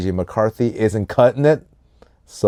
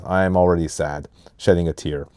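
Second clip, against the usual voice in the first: deadpan; 4 semitones lower, 3 dB quieter than usual. Acted. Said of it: "shows no emotion whatsoever".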